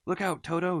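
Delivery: high, loud urgent warning shout. A narrator's reading. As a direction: yell to save the children. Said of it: "shouted Humpy Rumpy".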